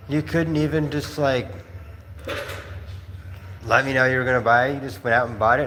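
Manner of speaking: hint of a frustrated wife; freaked out wife. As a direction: retell her exasperated scolding. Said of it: "she's all, like, freaked out".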